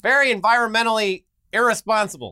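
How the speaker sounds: high, loud mock scolding; disapproving future viewer. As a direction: tut in a put-on prim complaint. Plays disapproving future audience.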